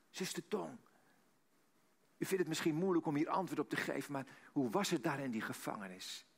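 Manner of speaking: softened, considerate asking; gentle, careful question. Retold or imitated. Interviewer carefully asks Sister Tong about prison, gently and softened. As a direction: ease into a delicate question, falling away.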